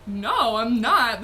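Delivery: panicked loud denial. Retold or imitated. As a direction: deny it flatly and loudly. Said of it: "I was like".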